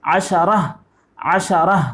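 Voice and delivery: عشرہ said twice, clear sh; Arabic drill repeat. Shown as a demonstration. Teacher drills Arabic ten for pupils, clear model repeats. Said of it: "دس کو بولتے ہیں عشرہ".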